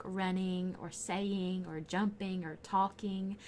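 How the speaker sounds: "running", "saying", "jumping", "talking" with full -ING endings; careful -ing endings. Shown as a demonstration. Showing viewers how she says her ings, careful and slow. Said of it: "try to say my ings".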